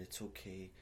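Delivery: soft, soothing reassurance, retold; imitated comforting. Man comforting a crying woman, softly imitated. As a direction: reassure her quietly, as if retelling it. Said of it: "I'm like, comforting her".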